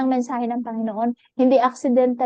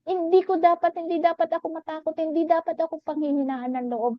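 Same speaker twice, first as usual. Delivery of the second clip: raised, determined voice; fervent resolve; 6 semitones higher than usual. Real, not acted. Testifying to the church, raised and fervent. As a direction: lift the voice to refuse fear.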